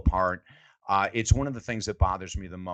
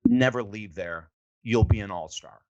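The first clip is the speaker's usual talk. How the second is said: Moses' verdict; 2 semitones lower than usual. Retold or imitated. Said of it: "and he goes".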